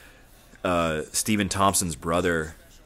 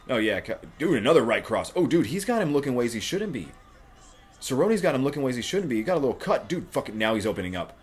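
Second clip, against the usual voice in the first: loud, high, rising excitement; excited live fight reaction; excited fight call; 5 semitones higher, 4 dB louder than usual. Real, not acted. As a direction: call the punches like a thrilled fan.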